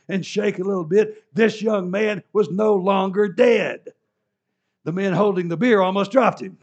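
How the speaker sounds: loud, high, preaching with fire; preacher at full force over the miracle; building excitement. A narrator's reading. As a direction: let the miracle explode. Climax of miracle narration.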